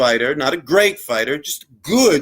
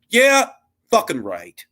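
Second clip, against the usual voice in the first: sarcastic; 5 semitones higher than usual. Acted. Sarcastic retort.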